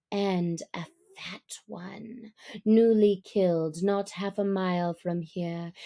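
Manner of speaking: Bagheera purring. Acted. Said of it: "he purred".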